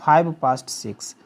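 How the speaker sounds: each word drawn out for learners; very slow model sentence. Shown as a demonstration. Teacher showing students how to say the time, very slow. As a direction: dictate it word by word, very slowly. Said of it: "सिर्फ five बोलेंगे".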